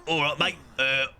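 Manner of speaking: put-on geezer pub voice; matey geezer impression; Jason Statham. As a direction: lightly imitate a London hard man. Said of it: "the voice I imagine Jason Statham".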